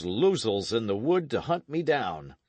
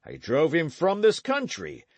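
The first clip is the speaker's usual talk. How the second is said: loud, higher, furious vow; raging oath; 7 semitones higher, 6 dB louder than usual. Acted. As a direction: knight swearing vengeance in rage and grief. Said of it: "convulsed with rage and grief".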